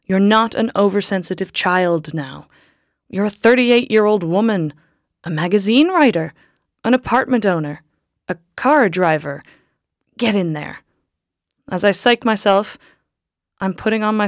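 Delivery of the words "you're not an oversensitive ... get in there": a firm pep talk to herself, a bit louder; self-admonishing. Acted. Woman psyching herself up outside the church, firmly self-scolding. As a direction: scold yourself into courage. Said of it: "I admonish myself".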